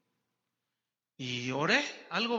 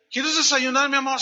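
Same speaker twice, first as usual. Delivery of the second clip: higher, louder syrupy offer; sweet wife; 6 semitones higher, 9 dB louder than usual. Retold or imitated. Wife offers her hungover husband breakfast, high and sugary.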